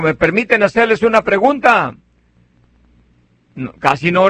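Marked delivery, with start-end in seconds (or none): 0.0-1.9 asking the congregation. Retold or imitated. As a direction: call out to the pews asking permission. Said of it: "Y les digo".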